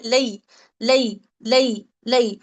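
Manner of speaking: लई drawn out slowly with a soft ai glide; soft yaa leen. Shown as a demonstration. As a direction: stretch लई slowly and softly. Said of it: "यालीन कैसा हो रहा है".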